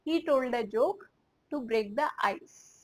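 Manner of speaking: slow, word-by-word repeat of the model. Shown as a demonstration. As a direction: say it again slowly for learners. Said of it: "तो हम बोलेंगे".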